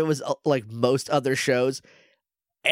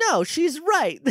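much higher cartoon alien agreeing; squeaky mock alien; hammed-up alien voice; 14 semitones higher, slower than usual. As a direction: podcaster playing Grum, squeaky and hammed-up. Grum voiced in recap.

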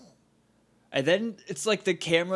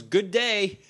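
mock Skull; 5 semitones higher, 4 dB louder than usual. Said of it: "Skull goes".

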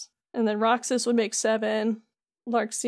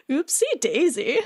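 slow, lightly put-on gruff old man; Keanu Reeves. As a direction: imitate a slightly gruff old dude, drawn out. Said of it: "their Keanu Reeves impression".

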